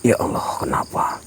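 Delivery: whispered prayers, barely voiced; frightened whisper. Real, not acted. Vlogger whispers prayers beside the ghost, frightened. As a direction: murmur to God under the breath.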